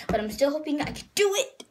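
"do it" jumps up high at the end; odd excited squeak. Real, not acted. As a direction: let your voice squeak upward on "do it". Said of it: "I don't know what that was".

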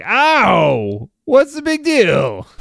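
high, loud wounded yelp of protest; loud yell. Acted. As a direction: yell it out, indignant and drawn-out. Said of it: "Amla will yell loudly".

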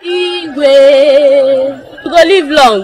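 long drawn-out royal salute; ceremonial hailing. Acted. Wife salutes the Igwe, ceremonial hailing. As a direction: hail the king, stretching the title. Lolo hails the king, drawn out.

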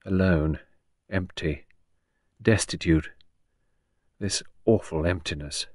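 hushed, understated sorrow; desolate. Acted. Grieving woman alone in studio, quietly desolate. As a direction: let each word fall into silence. Henrietta alone with her grief.

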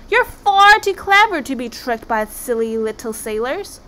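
butter up a dangerous monster; flattering. Acted. Flattering the Kraken to escape.

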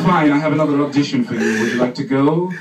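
loud, fast breezy agent; brisk agent. Retold or imitated. Agent ignores him and pitches another audition, loud and fast. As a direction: brush it off and move on briskly.

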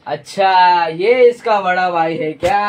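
hammed-up interrogation; mock inspector. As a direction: draw out the words with police authority. Inspector line in filmed take.

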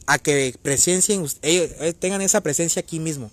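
thirsty, dry-mouthed stumbling. Real, not acted. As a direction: talk through a parched mouth. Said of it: "tengo demasiada sed".

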